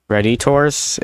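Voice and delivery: Redditors said as "red-ih-TORS" with a faux French ending; fake French. Shown as a demonstration. Explaining the joke word to viewers, fake French Redditors. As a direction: stress the last syllable of Redditors, red-ih-TORS. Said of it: "if you wanna pronounce it, uh, French".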